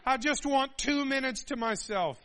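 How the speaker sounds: high, loud worn-out whine; exasperated plea. Retold or imitated. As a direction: beg for a moment's peace. Frazzled parent pleading.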